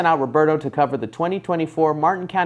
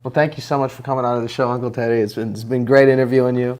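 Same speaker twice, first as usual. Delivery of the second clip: sad sign-off; 5 semitones lower than usual. Shown as a demonstration. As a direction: close the show glumly. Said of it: "You wanna redo the ending so it's less sad, more happy".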